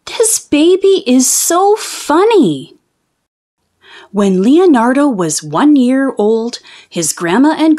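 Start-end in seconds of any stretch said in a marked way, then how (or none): 0.1-2.8 high, slow, delighted mother voice; doting mother. Acted. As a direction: coo it like a proud mom. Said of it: "She said".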